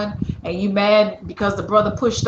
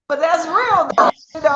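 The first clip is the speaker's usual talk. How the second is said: laughing; 9 semitones higher than usual. Real, not acted. Laughing at the accent slip.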